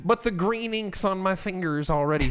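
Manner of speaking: high, loud incredulous what; mock startled squawk; caught-out guy. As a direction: play him startled and defensive.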